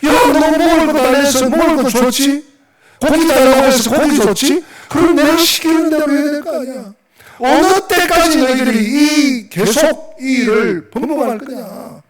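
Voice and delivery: high, loud exasperated scolding; angry God. Acted. God rebuking Israelites over food, high indignant scolding. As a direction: scold them indignantly, slowing on the final reproach. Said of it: "하나님이 역정을 내시".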